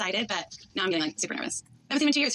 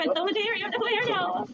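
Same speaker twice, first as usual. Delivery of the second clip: excited; 10 semitones higher than usual. Real, not acted. Greeting fiancé at airport.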